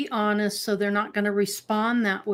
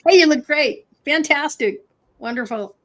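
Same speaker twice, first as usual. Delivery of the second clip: mock flattery; 6 semitones higher, 3 dB louder than usual. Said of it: "They want you to lie to them".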